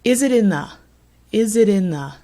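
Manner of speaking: "Is it in the" run together as one chunk; linked unstressed words. Shown as a demonstration. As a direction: link "Is it in the" smoothly, no gaps. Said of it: "And then listen to this".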